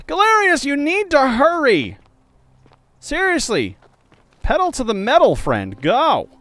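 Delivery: high, loud urging; impatient shout. Real, not acted. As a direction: hurry him along loudly. Urging slow companion.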